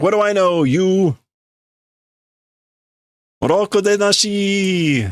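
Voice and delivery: high, scornful put-down; angry insult. Acted. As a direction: throw the insult at him. Workers insult the leader.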